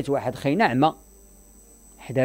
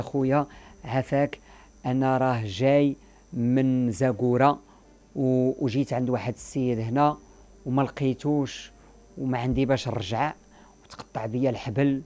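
slow, subdued hard-luck plea; pleading beggar. Retold or imitated. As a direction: imitate a meek beggar telling his sad tale slowly. Beggar's plea acted in a retold story.

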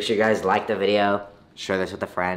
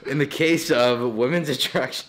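helium voice. Real, not acted. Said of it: "sounds like a fourteen-year-old Rob".

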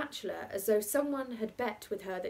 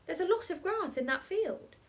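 put-on insistent boy; 10 semitones higher, 3 dB louder than usual. Boy argues with aunt.

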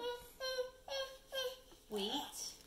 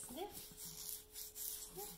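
tiny soft bunny sniffs; baby bunny; 10 semitones higher, 13 dB quieter than usual. Acted. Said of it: "the baby bunny says".

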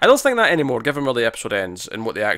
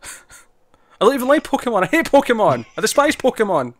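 high, loud, laughing through it; laughing mock disgust; 11 semitones higher, 5 dB louder than usual. Real, not acted. Co-host laughing as he disowns Pokemon, laughing. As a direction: cackle out the hatred in jest.

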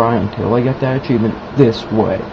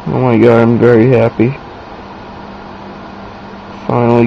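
happy. Real, not acted. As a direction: still buzzing after the win. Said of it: "So happy".

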